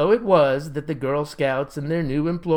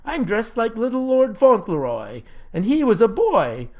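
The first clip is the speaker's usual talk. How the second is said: high, emphatic indignant shout; shouted protest; 7 semitones higher, 4 dB louder than usual. A narrator's reading. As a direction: insist loudly, pitched up. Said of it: "shouted the fellow".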